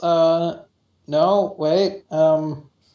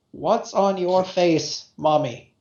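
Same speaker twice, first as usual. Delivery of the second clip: put-on creepy little girl voice; slower than usual. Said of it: "you hear a little girl's voice".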